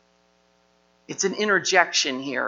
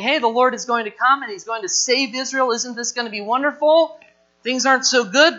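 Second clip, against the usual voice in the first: higher, louder, hammed-up cheerful hope; mock eager crowd; 4 semitones higher, 5 dB louder than usual. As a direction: imitate naive people gushing about rescue. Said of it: "People are saying".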